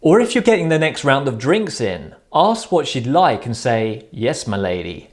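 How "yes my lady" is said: low, soft, lightly deferential reply; servant to the queen. Acted. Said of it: "as if you're serving the queen".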